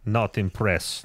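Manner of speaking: slow, listless put-on voice; indecisive, slow inner voice; unfulfilled guy. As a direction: drag it out like someone never satisfied. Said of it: "that is unfulfilled guy".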